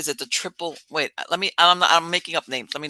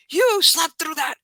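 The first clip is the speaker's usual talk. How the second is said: slow, higher mock-accusing boyfriend voice; 11 semitones higher than usual. Boyfriend accusing her of sleeping through, slow mock disbelief. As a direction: drag it out like he can't believe it.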